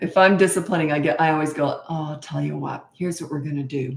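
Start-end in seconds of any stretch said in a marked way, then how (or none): 1.9-4.0 put-on very quiet tone, quieter. Showing how she always talks when disciplining: imitating her own quiet voice. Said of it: "So I get very quiet".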